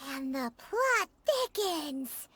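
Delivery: low, slow and ominous; mock-dramatic narrator tone; dramatic aside. Dramatic aside about Childe.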